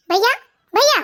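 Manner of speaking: urgent call for brother; acted summoning cry. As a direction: call out to your brother, twice. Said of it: "क्यों शोर मचा रही है".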